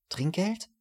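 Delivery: "Trinkgeld?" drawn out, tasted, rising high in disbelief; the waiter savors "Trinkgeld" in astonished delight; savoring the word. A narrator's reading. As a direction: roll "Trinkgeld" on the tongue like a rare treat. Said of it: "Der Kellner schmeckte das Wort förmlich ab".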